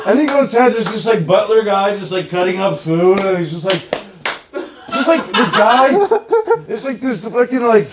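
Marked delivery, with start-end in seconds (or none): 5.0-7.9 giggling through the words; laughing while talking. Real, not acted. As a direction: laugh as you tell it. Laughing through the butler story.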